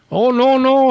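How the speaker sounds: high, loud mock Asian accent; imitated Asian accent. Agent denying the prankster's guess, mock Asian accent. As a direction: protest loudly in a faked Asian accent. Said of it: "his accent was so thick".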